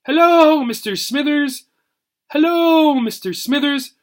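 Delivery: high, loud squawking parrot mimicry; idiotic parrot. Parrot idiotically echoes Tad's greeting, squawky and high. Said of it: "replied the parrot idiotically".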